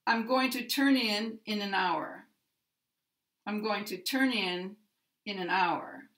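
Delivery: first "in" stressed, second "in" light; stress on the particle. Shown as a demonstration. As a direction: lean on "in" of "turn in", soften the next "in". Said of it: "The particle takes the stress".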